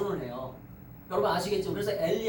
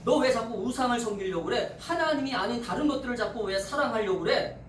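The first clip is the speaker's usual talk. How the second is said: scolding Spirit. Acted. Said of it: "성령님이 말씀하시는 거예요".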